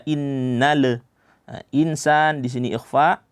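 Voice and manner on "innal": "innal" with a bounced extra vowel, inna-le; wrongly bounced lam. Shown as a demonstration. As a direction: let the l in "innal" bounce into a short uh. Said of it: "jangan dipantulkan, jangan dibaca".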